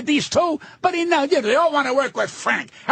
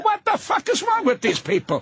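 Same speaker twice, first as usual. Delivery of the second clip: high, exasperated; 7 semitones higher than usual. Retold or imitated. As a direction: throw up your hands. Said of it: "And I'm saying".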